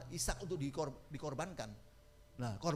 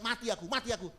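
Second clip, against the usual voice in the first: imitating a frightened patient's cry; high mock cry of despair; mock panicked yell; 6 semitones higher, 5 dB louder, faster than usual. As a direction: yell it like a man in pain. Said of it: "daripada Bapak teriak-teriak".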